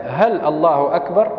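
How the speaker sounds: هل الله أكبر with a rising question tune; asking tone. Shown as a demonstration. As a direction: ask it as a real question, rising at the end. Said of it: "كأنه يسأل". (نبرة استفهام)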